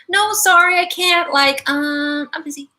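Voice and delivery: high-pitched refusal, modelled for a listener; sounding your horn. Shown as a demonstration. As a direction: announce the refusal up high, then drop off at the end. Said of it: "you need to sound your horn".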